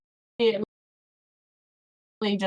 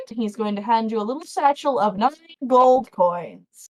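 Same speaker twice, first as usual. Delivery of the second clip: ordinary delivery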